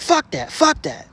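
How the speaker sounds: high, strained panic, backing off; a friend bailing out in fear; panicked friend. Retold or imitated. Scared friend refusing the torch, high and strained.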